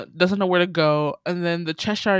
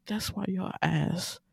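slow, drawn-out scolding that climbs much higher at the end; mock scolding; 5 semitones higher, slower than usual. Talking back at Alice on screen, slow mock scolding. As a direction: tell Alice off, stretching every word.

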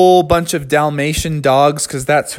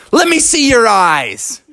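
high, sharp demand; snatch the glasses and demand it; bear demanding; 9 semitones higher than usual. Acted.

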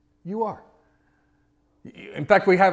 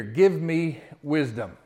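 slow, deliberate lead line; slow call to repeat; 2 semitones lower, slower than usual. Shown as a demonstration. Pastor leading the church in a slow repeated line. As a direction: spell it out slowly for the room. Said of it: "Can you say that with me?".

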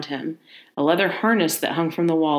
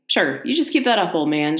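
taunting call. Acted. Johnson calling out to the unseen old man, taunting. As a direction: call out a dare. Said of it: "Johnson called out again".

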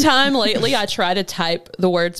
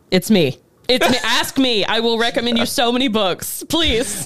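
eager pleading; 3 semitones higher than usual. Retold or imitated. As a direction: beg to be asked. Eager self-recommendation.

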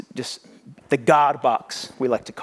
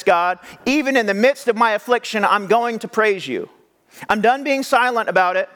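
fervent praise; 7 semitones higher than usual. Retold or imitated. David's praise voiced.

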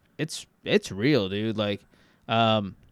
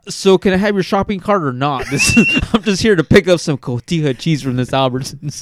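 put-on louder New Orleans accent, as a shopper at a store; 6 dB louder than usual. New Orleans accent, acting out a grocery store scene. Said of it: "fantastic fucking New Orleans accent".

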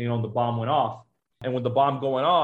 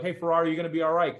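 tearful reassurance; 5 semitones higher, faster than usual. Retold or imitated. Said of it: "they're all crying".

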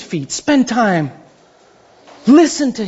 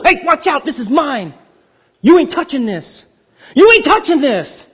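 possessive God; 4 semitones higher than usual. Retold or imitated. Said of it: "It's a continual".

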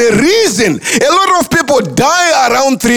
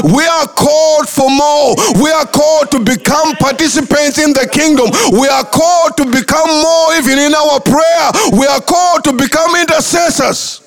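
preaching climax; 3 semitones higher than usual. Acted. Preacher rousing congregation to action, preaching at full force. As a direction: build it like a pulpit crescendo.

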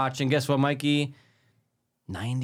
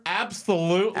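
higher, rising "Absolutely"; imitating an enthusiastic man; 4 semitones higher than usual. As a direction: playfully mimic an eager yes. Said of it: "he would have said".

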